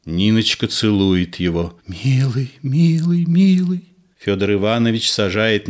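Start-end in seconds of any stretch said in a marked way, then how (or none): 1.9-3.8 put-on building loving girl. Ninochka kissing him, rising higher with each word. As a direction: let the love swell with each word.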